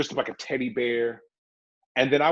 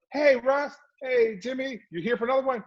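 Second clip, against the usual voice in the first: higher, friendly guard greeting; voicing the guard, a bit higher; security guard greeting; 10 semitones higher than usual. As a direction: call out like a cheerful guard.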